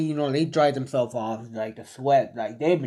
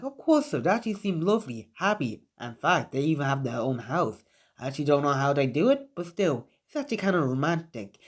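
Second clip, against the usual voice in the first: gushing sensei. Acted. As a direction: rattle it off, swooning and pitched up. Sensei gushes about the couple.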